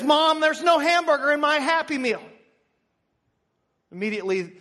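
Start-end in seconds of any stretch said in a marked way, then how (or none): 0.0-2.2 put-on higher-pitched kid whine to mom; complaining six-year-old. Six-year-old finds no burger in her Happy Meal, complaining. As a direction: play a child protesting a missing item.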